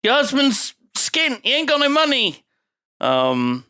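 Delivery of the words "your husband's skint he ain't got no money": lightly acted taunt in a raised pitch; a hint of a put-on character voice; Andy Garcia. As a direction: pitch it up for the quoted jibe. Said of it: "Andy Garcia, is, is saying".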